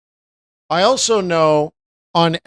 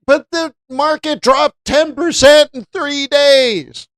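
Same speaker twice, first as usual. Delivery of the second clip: higher, slow mock-alarmed friend; imitating a panicked friend; 10 semitones higher, 3 dB louder, slower than usual. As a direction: sound like a buddy watching his money drop. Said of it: "they're like".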